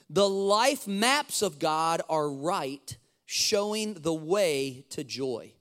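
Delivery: slow, deliberate scripture reading; measured read with pauses between phrases. Acted. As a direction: read the verse slowly, letting each phrase land. Reads scripture aloud.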